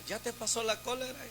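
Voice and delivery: soft, unhurried question with no anger in it; calm and gentle. Retold or imitated. Pastor calmly asks the young man who hit him, gentle and soft. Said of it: "Con aquellas palabras bien pasivas".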